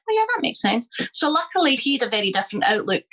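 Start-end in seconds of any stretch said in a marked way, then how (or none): 0.1-0.9 sarcastic. Retold or imitated. Mock reply to violent suggestion.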